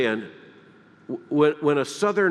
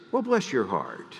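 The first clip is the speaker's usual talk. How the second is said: sweet approval; 4 semitones lower, 3 dB quieter than usual. Retold or imitated. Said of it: "If she liked it".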